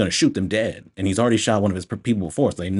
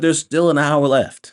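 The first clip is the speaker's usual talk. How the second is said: louder, higher and slow in disbelief; exasperated disbelief; 7 semitones higher, 6 dB louder than usual. Retold or imitated. Reviewer appalled at the remaining runtime, slow and loud. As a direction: drag it out, appalled. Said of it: "I was like".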